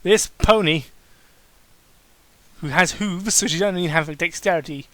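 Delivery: mocking the fanfic's praise, sarcastic; mock amazement. Real, not acted. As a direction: fake being blown away by it.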